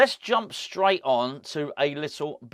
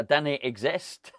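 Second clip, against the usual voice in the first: put-on Scottish accent. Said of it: "we've got to do this one in a Scottish accent".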